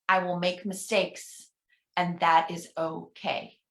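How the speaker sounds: slow affirmation reading. Shown as a demonstration. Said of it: "I'm gonna read each one".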